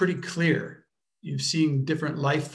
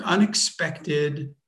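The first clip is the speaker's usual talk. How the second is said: "unexpected" stretched very slowly, each syllable apart; slow, deliberate "unexpected"; drawn-out word; much slower than usual. Shown as a demonstration. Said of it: "can you say that again more slowly".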